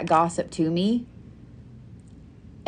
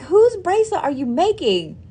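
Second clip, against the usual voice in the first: puzzled question; 11 semitones higher than usual. Retold or imitated. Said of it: "I'm like".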